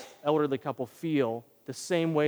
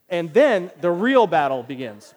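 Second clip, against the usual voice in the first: normal talking voice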